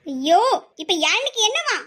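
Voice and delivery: mildly exasperated outburst; annoyed. Acted. Woman fed up with the man calling her name, annoyed. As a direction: snap back with a touch of annoyance. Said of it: "எப்படி கோவப்படுற பாரு".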